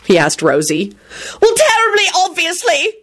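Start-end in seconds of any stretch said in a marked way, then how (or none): 1.4-3.0 shrieking, bawling. A narrator's reading. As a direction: wail it as she breaks down. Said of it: "Rosie shrieked and started bawling".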